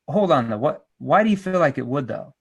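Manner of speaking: skeptical, probing question; detached, doubtful expert. Shown as a demonstration. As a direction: question it as if not quite convinced. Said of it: "Did you see how my voice was skeptical?".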